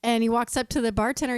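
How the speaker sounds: ordinary talk, nothing marked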